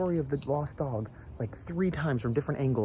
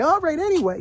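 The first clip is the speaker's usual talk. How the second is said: loud, high-pitched change of subject; retold brisk cut-off; 8 dB louder than usual. Parent cutting off kids' horror movie talk, loud high interruption. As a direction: break in to shut the topic down.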